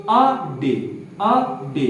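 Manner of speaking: अ डे spelled out as two separate syllables; mnemonic syllables. Shown as a demonstration. Teacher gives students the memory trick, syllable by syllable. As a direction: split it into अ and डे. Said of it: "इसकी जो hint हमने बना रखी है".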